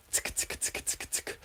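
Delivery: "tick" as a soft, unvoiced whispered click. Shown as a demonstration. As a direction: whisper "tick, tick" as crisp little taps. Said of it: "if you whisper it like this".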